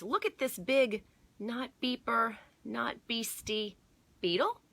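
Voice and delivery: high, loud excited discovery; excited kid. Acted. Boy excitedly showing neighbour a beetle, high and loud. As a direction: show off the big beetle with glee.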